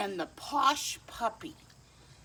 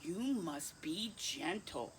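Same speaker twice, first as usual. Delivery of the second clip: softly and slowly, a gentle warning; soft slow "You must be gentle"; 6 dB quieter, slower than usual. Acted. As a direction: ease into each word like calming a toddler. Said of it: "I tell her".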